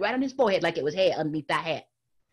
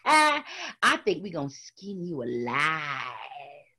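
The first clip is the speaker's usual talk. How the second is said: menacing laugh; 5 semitones lower, much slower than usual. Acted.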